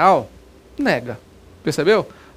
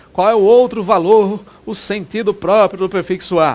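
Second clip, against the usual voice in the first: calling on class; 2 semitones higher, 6 dB louder than usual. Real, not acted. Teacher pressing class for answer.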